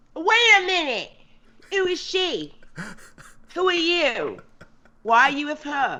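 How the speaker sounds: put-on high-pitched, tipsy, drunken speech. Role-playing a character walking up to the Duchess and Elijah: Lady Sharkbite acting drunk. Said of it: "pretend she's like um a drunken".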